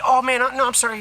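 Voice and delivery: mock apologetic cashier. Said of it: "The guy's like".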